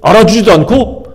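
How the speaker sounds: hurt, half-acted outrage at being ignored; resentful anger. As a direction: play the slighted believer fuming. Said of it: "막 그래서 뭐 화가 나는 거예요".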